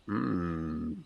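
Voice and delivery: thoughtful. Acted. Bruce musing about food while staring her down, slow and thoughtful. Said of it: "kind of thoughtful noise".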